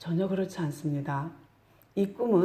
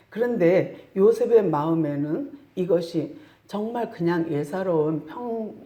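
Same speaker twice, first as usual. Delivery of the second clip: ordinary talk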